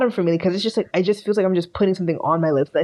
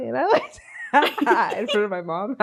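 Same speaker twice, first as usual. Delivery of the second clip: cracking up mid-sentence; laughing; 3 semitones higher than usual. Real, not acted. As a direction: squeeze the words out through giggles. Cracks up at own childhood memory.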